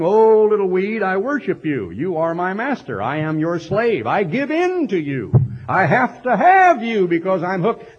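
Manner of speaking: mock the smoker begging his cigarette; mock whimpering addict. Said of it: "weeping and whimpering".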